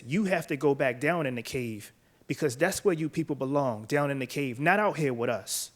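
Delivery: usual speaking voice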